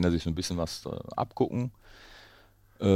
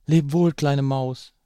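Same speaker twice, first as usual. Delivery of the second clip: much higher, louder and slow owl voice; hasty owl farewell; 9 semitones higher, 8 dB louder, much slower than usual. Acted. Owl hastily calling goodbye to the mouse, higher and slow. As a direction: voice the owl hurrying away. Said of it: "rief sie voller Hast".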